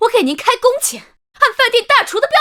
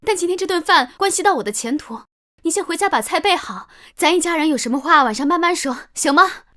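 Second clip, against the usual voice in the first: fake sweet coaxing; 5 semitones lower, 4 dB quieter than usual. Daughter-in-law suddenly coaxing mother.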